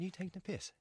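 hushed retelling of an angry question; whisper. Retold or imitated. Footballer retelling his confrontation with the boss, whispered. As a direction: whisper it like it's a secret. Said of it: "I don't know why I'm whispering".

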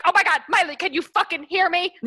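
loud, high, imitated excited yell; overwhelmed fan. Fan calling to a singer on Zoom, excited yell. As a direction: call out to your idol in disbelief. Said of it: "and then Ariel was like".

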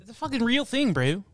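high, put-on Philly accent. Shown as a demonstration. Doubling down to a skeptical friend, Philly accent. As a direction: argue in an exaggerated, high Philly voice. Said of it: "never heard anyone talk to me like that".

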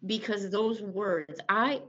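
words catching, choked and faltering; real grief breaking through the telling; real upset. Real, not acted. A mother reliving her son's confession, choked up. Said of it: "you see how upset I'm getting".

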